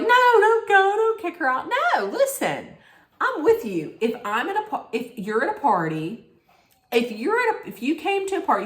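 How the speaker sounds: high-pitched imitation of a friend pleading; mock-protest, voice shooting up high; urgent plea. Acting out Heather's plea, dinner quarrel.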